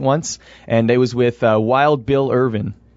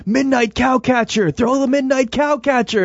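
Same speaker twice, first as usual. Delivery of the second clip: mild mock yell; 8 semitones higher than usual. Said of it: "he was, like, yelling".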